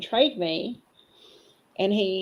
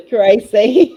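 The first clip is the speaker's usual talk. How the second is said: calling out; 4 semitones higher, 12 dB louder than usual. Real, not acted. Calling out to Gracie, laughing.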